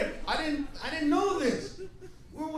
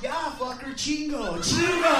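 defiant demand; 3 semitones higher, 4 dB louder, slower than usual. Retold or imitated. Clueless friend demanding chili, loud defiant call.

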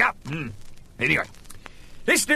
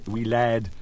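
ordinary talk, nothing marked

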